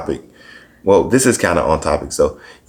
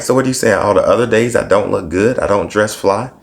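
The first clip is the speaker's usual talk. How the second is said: mock indignant; 4 semitones higher than usual. Indignant retort retold.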